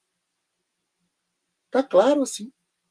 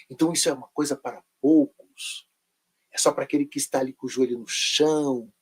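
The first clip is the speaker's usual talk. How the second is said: mystical preacher tone; 4 semitones lower than usual. Retold or imitated. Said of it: "eles põem uma entonação na voz".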